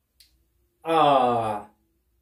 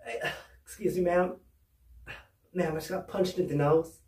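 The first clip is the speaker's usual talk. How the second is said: faking hurt; 7 dB quieter than usual. Retold or imitated. Faking injury to teacher.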